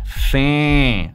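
"Fa-" held on a wide æ vowel; isolated American A. Shown as a demonstration. Coach isolates the vowel, "Fa-" with wide æ. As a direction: draw out "Fa-" as in English "fan". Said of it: "se dice family".

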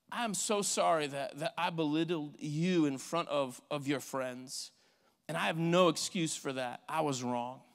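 sincere apology. Acted. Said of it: "this sincere apology".

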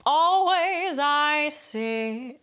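"Always" hit with a hard glottal catch, sung high and slow; "Always" with a hard glottal attack. Shown as a demonstration. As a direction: slam the vowel of "Always" from the throat. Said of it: "This can be a hard glottal attack".

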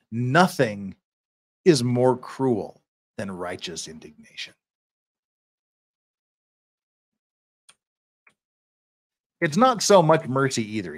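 emphatic, deliberate oratory; courtroom plea read aloud. Acted. Defender pleading for life in prison, emphatic oratory. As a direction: press the moral point on the judge.

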